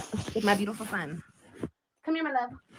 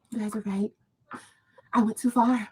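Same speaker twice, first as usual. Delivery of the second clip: softer, sarcastic fake-contrite apology; mock apology; 7 dB quieter than usual. Mocking the apology haters expect, soft and insincere. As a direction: toss off a sorry you clearly don't mean. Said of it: "be like".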